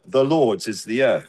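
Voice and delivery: Lord's stressed, falling away after. Shown as a demonstration. Preacher repeating the psalm's emphasis, stress on Lord's. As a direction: put the weight on Lord's. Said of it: "The emphasis there on the first word".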